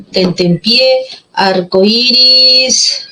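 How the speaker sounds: slow, drawn-out dictation; dictado lento. Shown as a demonstration. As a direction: stretch each word out for note-taking. Dictating words while writing them. (dictado lento, alargando las palabras)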